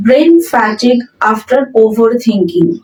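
very slow, word by word dictation; slow model sentence. Shown as a demonstration. Teacher reading the example sentence aloud to students, very slow and clear. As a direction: spell it out slowly for learners. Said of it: "চিন্তা করতে করতে ওর মস্তিষ্কে পচন ধরেছে".

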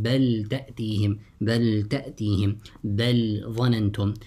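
بل with its ل clearly sounded before تأتيهم and ظننتم; never merge the ل of بل into ت or ظ; izhar. Shown as a demonstration. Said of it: "recite with إظهار".

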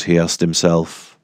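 usual speaking voice

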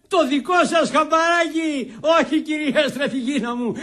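high, drawn-out defiant retort. Acted. Prisoner refuses any compromise with the lady, defiant. Rejects her advice defiantly.

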